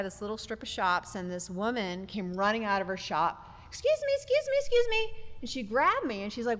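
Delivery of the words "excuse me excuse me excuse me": high-pitched retold shouts after someone; urgent calling out. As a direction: imitate a woman chasing someone down, voice way up high. Retold shop woman running out calling.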